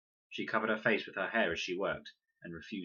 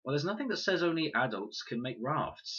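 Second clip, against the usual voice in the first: exasperated; 7 semitones higher than usual. A narrator's reading. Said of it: "said Fred, exasperated".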